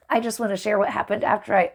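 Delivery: hurried, tripping over the opening; a flubbed, rushed first take; rushed false start. Shown as a demonstration. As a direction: rush the opener then stumble. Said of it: "restarts the same line plainly".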